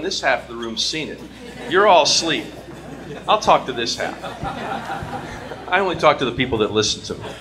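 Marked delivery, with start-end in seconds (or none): 1.7-7.3 sarcastic. Real, not acted. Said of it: "that's my Philadelphia sarcasm".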